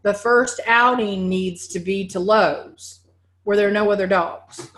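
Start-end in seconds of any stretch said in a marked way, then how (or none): 3.4-4.8 laughing. Real, not acted. Laughs at her own joke.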